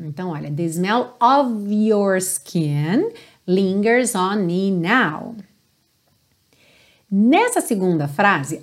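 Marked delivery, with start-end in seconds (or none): 0.5-5.3 very slow, "of" linked into "your" with a clear v. Shown as a demonstration. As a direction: stretch the line, sounding "of your" as "ov-your". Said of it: "fica bem claro mesmo esse som do V".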